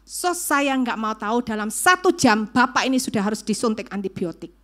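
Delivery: firm doctor's command, punched key words; giving orders. Retold or imitated. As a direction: order the nurse with no room for argument. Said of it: "Dokter memberikan perintah".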